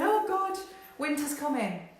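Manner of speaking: high, loud hammed-up dread; playing the doom-monger; mock panic.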